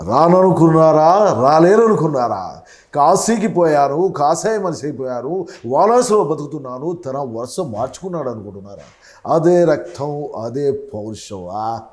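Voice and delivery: film hero's warning, slow and measured; Chiranjeevi impression. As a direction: deliver the mass dialogue with slow menace. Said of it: "ఇలా చిరంజీవి గారు".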